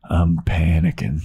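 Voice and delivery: low, even line with a loud push; flat confession of panic; deadpan Oz. Retold or imitated. Oz telling Willow he panics too, deadpan and low. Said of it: "he goes".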